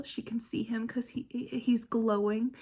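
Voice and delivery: mocking whisper. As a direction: whisper it with scorn. Mocking a quoted line.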